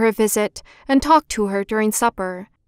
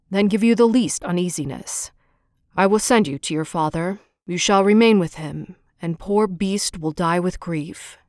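low, heavy monster voice, pleading gently; a lonely beast asking to be liked; gruff Beast voice; 4 semitones lower than usual. A narrator's reading. The Beast asks Beauty if he seems ugly, low and humble. Beast agrees to let her go.

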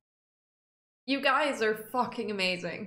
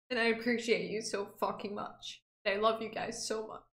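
heartfelt thanks, sinking softer toward the end; emotional, sincere; 4 dB quieter, faster than usual. Real, not acted. Streamer thanking close friends for the video, emotional and sincere. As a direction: thank them quietly, moved to tears. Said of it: "I'm so sorry that I'm emotional".

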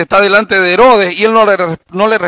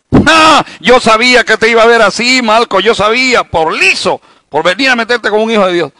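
loud, much higher taunting shout; gloating shout; 5 semitones higher, 4 dB louder than usual. Pretend. Preacher voices a believer taunting wounded Malco, loud gloating shout. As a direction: crow over him, yelling I-told-you-so.

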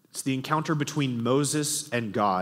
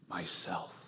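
much softer and lower, barely audible; soft whisper; 6 semitones lower, 10 dB quieter than usual. A narrator's reading. The voice answers Shasta a third time, barely whispered. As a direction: breathe it so softly it's hardly heard. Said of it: "whispered so softly you could hardly hear it".

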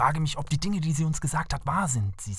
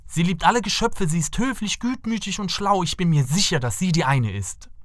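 higher-pitched, eager praise, settling at the end; earnest enthusiasm; 4 semitones higher than usual. Acted. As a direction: plead her case with rising conviction. Prince praises the princess to parents.

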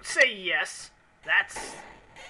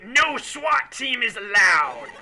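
loud, slow, higher mock decree; hammed-up rage shout; 6 semitones higher, 7 dB louder, slower than usual. Mountain Maniac banning the swat team, slow loud shout. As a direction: bellow it like a maniac.

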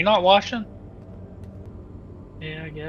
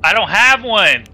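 higher, louder, slow protest; panicking gamer; 9 semitones higher, 8 dB louder than usual. Real, not acted. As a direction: insist desperately, drawing it out. Panicked argument over almond water.

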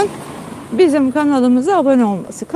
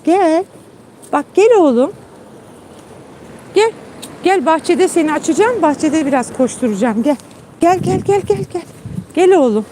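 coaxing the dog; 3 semitones higher than usual. Retold or imitated. Owner retelling coaxing her dog into the garden, lightly sing-song. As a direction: lure him outside, sweetly. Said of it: "ben sesleniyorum".

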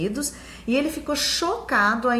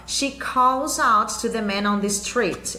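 lendo devagar; slower than usual. Shown as a demonstration. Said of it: "Eu deixei em vermelho ali o calls".

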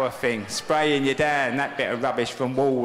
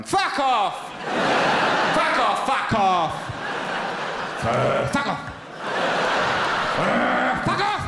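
dog barking at passers-by; 7 semitones higher, much slower than usual. Pretend. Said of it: "Every time someone goes past going".

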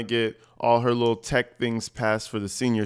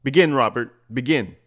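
louder, mock-bossy orders like a boss to her puppy; ordering Robert around like her dog, mock-bossy; bossy commands to Robert; 6 dB louder than usual. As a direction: bark the orders, half-imitating her. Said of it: "That's how she talks to him".

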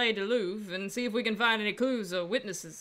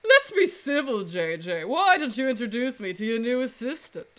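arrogant voice. Acted. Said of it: "that arrogant voice".

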